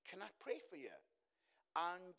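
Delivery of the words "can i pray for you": softly, much quieter, asking to pray; soft question to a stranger; quiet retold offer. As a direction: ask it gently on a busy train. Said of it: "I just said".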